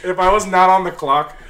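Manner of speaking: laughing loud and high. Real, not acted. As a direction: laugh the words out. Laughs while speaking.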